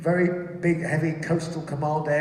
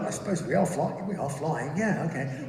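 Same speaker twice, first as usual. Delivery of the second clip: doubtful musing; 4 semitones lower, 6 dB quieter than usual. Acted. Acting own reassuring thoughts.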